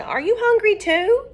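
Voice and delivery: high, loud sing-song question; talking to a hungry kitten; cooing to a cat. Acted. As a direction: coo up to the kitty. The speaker coos to cat.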